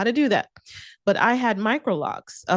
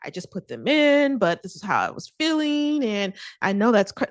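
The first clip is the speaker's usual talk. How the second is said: a hint of a nervous friend over-explaining; rambling old self; 2 semitones higher than usual. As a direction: rattle off excuses like a people-pleaser. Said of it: "just this whole long response".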